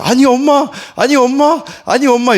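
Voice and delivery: mock a child yelling for mom; crying child's yell. Father imitating his upset child calling mom, mock yelling. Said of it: "하면서 막 소리를 질러요".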